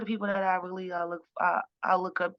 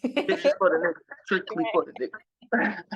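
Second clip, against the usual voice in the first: Jamaican song intro; 4 dB louder than usual. Retold or imitated. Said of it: "speaking in Caribbean, Jamaican accent".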